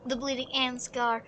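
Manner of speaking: measured storybook reading; story narration. A narrator's reading. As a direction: tell the tale evenly, with drama held back. Reads game story aloud.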